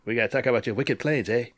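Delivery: bad New England accent; a muddled, hammy New England accent. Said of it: "What accent was that?".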